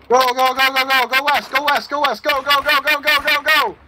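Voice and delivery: urgent shout. Real, not acted. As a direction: drive the squad forward, shouting. Urging teammates west in battle.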